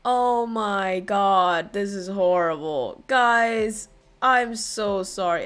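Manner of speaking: low, slow groan of dismay; heavy, sorry lament; mortified. Real, not acted. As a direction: drag it out, sinking with regret. Mortified apology to ignored viewers.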